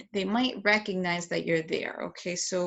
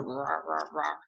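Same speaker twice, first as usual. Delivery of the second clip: dinosaur roar; 5 semitones lower, 7 dB quieter than usual. Shown as a demonstration. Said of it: "he's playing with his dinosaur".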